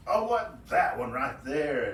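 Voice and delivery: a lightly voiced eager rabbit, slow. Rabbit eyeing a bigger fish, lightly voiced eager want. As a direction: point at the bigger fish, wanting it.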